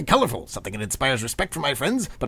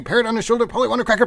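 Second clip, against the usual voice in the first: higher and louder, carried away; gushing excitement; 9 semitones higher, 6 dB louder, faster than usual. Acted. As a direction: get swept up in the fantasy. Gushing about pirate imagery.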